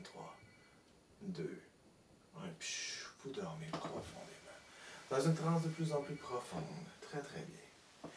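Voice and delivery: steady hypnotist's patter, sinking away at phrase ends; hypnotic induction. Real, not acted. Hypnotist leading a volunteer into trance, hypnotic induction.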